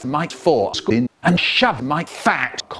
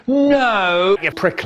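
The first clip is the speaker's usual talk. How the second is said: retorting; 4 semitones higher, 3 dB louder, slower than usual. Retold or imitated. Rude refusal, retold.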